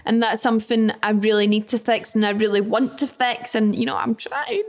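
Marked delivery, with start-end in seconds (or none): none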